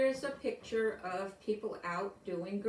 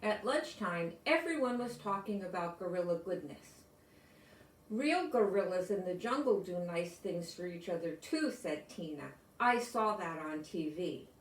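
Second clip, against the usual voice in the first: storybook reading. A narrator's reading. Reads picture book to class.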